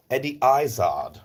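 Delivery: name redone with British vowels; British accent. Shown as a demonstration. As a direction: say IZZARD the British way, EYE-zahd.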